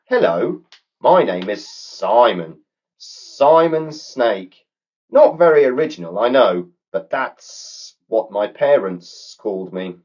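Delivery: a chatty snake introducing himself. A narrator's reading. Snake greeting the girls, high friendly snake voice. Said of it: "turning to the explorers and saying".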